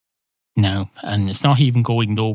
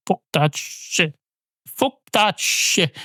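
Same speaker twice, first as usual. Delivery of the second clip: emphatic rejection; 8 semitones higher, slower than usual. Real, not acted. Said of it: "rejecting his own attempt".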